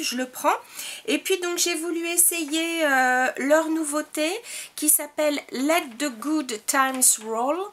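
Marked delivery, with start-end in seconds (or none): 5.5-7.6 English title read with a strong French accent; French-accented English product name. Shown as a demonstration. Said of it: "Attention avec mon accent qui tue".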